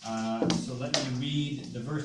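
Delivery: muffled, distant mic sound; like talking from inside a barrel; bottom of a barrel. Real, not acted. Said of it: "you sound like you're at the bottom of a barrel".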